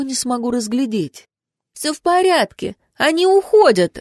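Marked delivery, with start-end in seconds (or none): 1.7-4.0 higher, louder call from a distance; calling out through smoke. A narrator's reading. Lucretia calling through the smoke to the others, high call. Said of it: "голос Лукреции".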